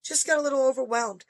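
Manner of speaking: lightly voiced gentle reassurance; a hint of a calm teacher soothing a parent. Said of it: "I mean, so gentle about it".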